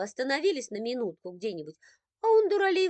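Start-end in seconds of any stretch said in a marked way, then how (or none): 2.2-2.9 exasperated aside. A narrator's reading.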